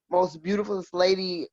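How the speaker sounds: ordinary talk, nothing marked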